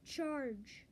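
restrained charge cry; battle yell. Acted. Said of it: "yelled at the top of his lungs".

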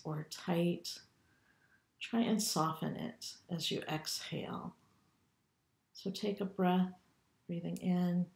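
calm, unhurried meditation guide with long pauses; guided meditation. Acted. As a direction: lead them gently through a body scan, leaving room to breathe. Leads body scan meditation.

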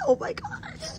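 very high, breaking into giggles; laugh-squeal of sheer joy; overjoyed giggly squeal. Real, not acted. Overwhelmed by table runners.

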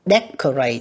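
"Decorate" with C sounded as K; hard C. Shown as a demonstration. Teacher sorting C sounds for pupils, hard C in "Decorate". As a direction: say "Decorate" with a K in the middle. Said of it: "âm cờ ha các bạn".

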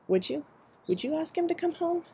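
high, soft, tearful pleading; tearful plea. Acted. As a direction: beg through tears, barely holding together. Drunk, weeping mother pleads.

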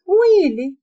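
high startled yelp; mock dismay; surprised cry. A narrator's reading. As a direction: fake a little gasp of shock. Spills juice on herself, exclaims.

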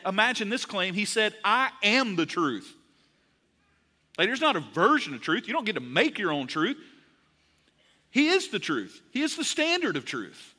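earnest preacher, pitched high; preaching. Real, not acted. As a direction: drive the point home to the congregation. Preaches the main point.

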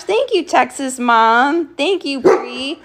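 slow, lilting thank-you; drawn-out sweet thanks; sing-song thanks. Real, not acted.

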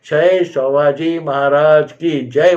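storyteller's measured mock roar; retold rallying cheer. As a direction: imitate a crowd's victory cry with restraint. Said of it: "म्हणून गर्जना केली".

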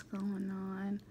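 slow soft whisper. Real, not acted. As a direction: hush it out slowly. Whispered aside while eating on camera.

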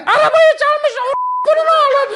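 very high, loud shrieking accusation; mother shrieking at the neighbourhood; mother shouting. Retold or imitated. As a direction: shriek it from the balcony, outraged. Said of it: "diye böyle bağırır".

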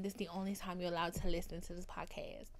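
whisper. Real, not acted. Whispered aside to boys.

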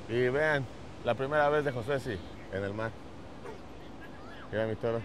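low, soft and slow; hushed reveal. Real, not acted. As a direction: build quiet suspense before the big reveal. Solemn build-up to blindfold reveal. (voz baja y solemne)

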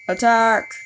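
shouted high order to charge; battle cry. Pretend. Rallying the troops with a shouted battle cry. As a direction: yell it like a commander.

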